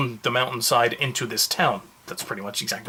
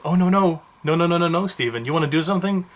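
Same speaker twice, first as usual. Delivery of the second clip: mocking laptop voice; 4 semitones higher, 3 dB louder than usual. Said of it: "Then my laptop goes".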